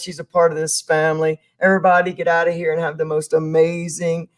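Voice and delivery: rally the viewers like a host; energetic host sign-off. Acted. Host's energetic closing to viewers.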